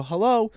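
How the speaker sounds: HELLO lifted high as if unheard; imitated mother's HELLO, checking the line; questioning hello. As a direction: say HELLO like you can't hear. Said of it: "making it sound like you can't hear me".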